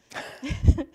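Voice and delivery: a quick real laugh; short laugh. Real, not acted. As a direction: burst of breathy laughter. Laughing at being too fine.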